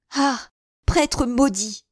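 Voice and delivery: high, loud, drawn-out curse; furious cry. A narrator's reading. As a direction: hurl the curse after him. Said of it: "s'écria Anne d'Autriche en étendant la main".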